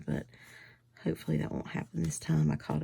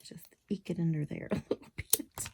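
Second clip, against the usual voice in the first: soft, half-whispered muttering; under-the-breath crafting talk; concentrating self-talk; 6 dB quieter than usual. Real, not acted. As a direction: murmur it while busy with fiddly work. Working on the card.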